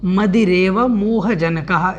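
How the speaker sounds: careful, unhurried pronunciation; slow careful recitation. Shown as a demonstration. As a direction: say the phrase slowly and deliberately, syllable by syllable. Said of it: "यहाँ पर देखें तो".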